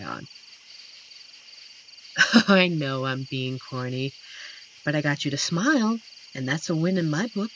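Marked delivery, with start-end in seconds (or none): 2.2-7.5 laughing at himself. Acted. Teasing himself for being corny.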